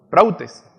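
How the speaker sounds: prautes, stressing its U. Shown as a demonstration. Preacher repeats the Greek for listeners, U stressed in prautes. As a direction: say prautes with the accent on U. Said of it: "Con acento en la U".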